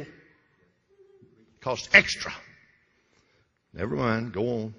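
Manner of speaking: slow breathy aside, barely voiced; conspiratorial whisper. Preacher to congregation, whispering a sly aside about HBO. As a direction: lean in and whisper it like a secret.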